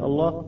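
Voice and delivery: الله with a thick, dark L; heavy lam. Shown as a demonstration. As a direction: say الله with a velarized double lam. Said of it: "إذا نريد أن نفخم اللام".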